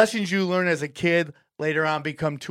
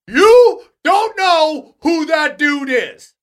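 much higher, louder and slow, urgent; alarmed warning; 11 semitones higher, 9 dB louder, much slower than usual. Retold or imitated. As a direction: grab him and warn him, wide-eyed. Staff rushing up with warning.

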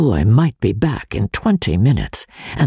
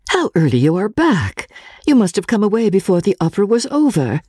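a touch higher, quick, mildly surprised; lightly voiced surprised Marian; 8 semitones higher than usual. Marian surprised to see Walter home early, lightly voiced. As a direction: Marian caught off guard by his early return.

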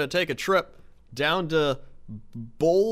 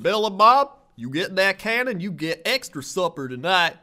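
hick dad voice; 5 semitones higher, 5 dB louder than usual. Retold or imitated. Dad voice addressing sons.

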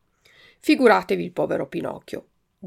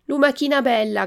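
raised, higher storybook call; 6 semitones higher, 5 dB louder than usual. A narrator's reading. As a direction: call up to someone at a window. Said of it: "gridò Pinocchio". (richiamo a voce alta)

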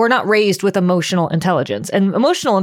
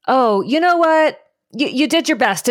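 mock soothing; 6 semitones higher than usual. Voices someone soothing a crying child.

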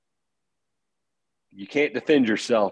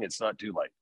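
soft, breathy whisper of comfort; hushed whisper; 3 semitones lower, 9 dB quieter than usual. Real, not acted. Whispering to a parent who fears failing. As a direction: drop to a whisper to reassure.

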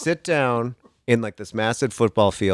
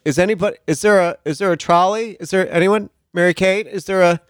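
1 desperate plea; 9 semitones higher, 6 dB louder than usual. Retold or imitated. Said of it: "you're like".

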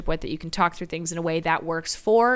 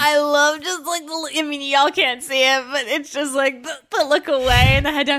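higher, louder put-on British accent; 6 semitones higher, 6 dB louder than usual. Host imitating the singer's mannerisms, light British accent. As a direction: keep the mock British voice going. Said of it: "That accent work".

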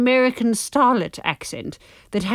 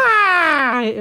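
Scottish starlet voice; 7 semitones higher, 4 dB louder than usual. Pretend. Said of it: "old Hollywood starlets suddenly had a bit of".

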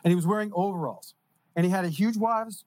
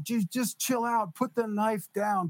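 firm plea; 4 semitones higher, slower than usual. Retold or imitated. Retold talking down an armed man.

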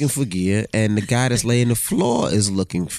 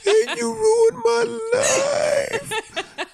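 very high, slow, wailing mock sob; imitating his high partner bawling at him; imitated crying rant; much slower than usual. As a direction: wail it out like a laughing, crying wreck. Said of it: "now you're crying and now you're like".

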